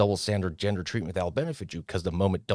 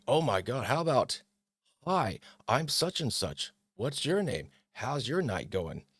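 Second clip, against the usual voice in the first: mock sweet greeting; 4 semitones higher than usual. Mocking how she should talk.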